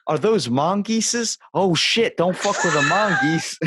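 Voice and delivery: high, slow stoned amazement rising to a shout; imitating a rapper yelling at mongooses; rapper impression. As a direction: freak out over mongooses, laughing. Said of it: "He says".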